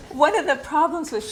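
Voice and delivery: words carried on the tail of a laugh; laughing through words. Real, not acted. Teacher to class after her joke, laughing speech. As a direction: speak while still laughing.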